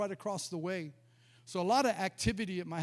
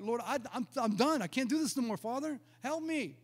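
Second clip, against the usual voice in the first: higher-pitched acted plea to God; retold desperate plea; 4 semitones higher than usual. Preacher reliving his back-room prayer to the Lord, desperate plea. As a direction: plead as if at the end of your rope.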